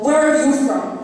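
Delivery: acted angry comeback, throwing the question back; confrontational, pent-up anger let out; angry retort. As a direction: fire the question back, fed up. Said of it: "When I finally do break and say".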